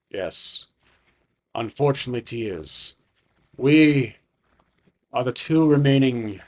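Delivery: slow, solemn dragon revelation; long pauses, drawn-out words, as an old dragon remembering; ancient dragon. Acted. Dragon confirming the master is his brother, slow and solemn.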